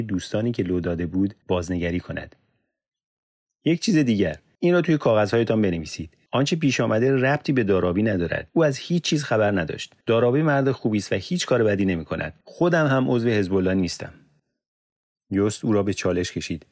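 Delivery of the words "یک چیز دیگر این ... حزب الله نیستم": insistent. Acted. Yusuf insists friend is innocent.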